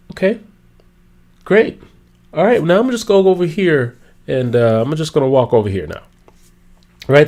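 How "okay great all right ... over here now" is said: bored brush-off. Acted. Bored listener walking away.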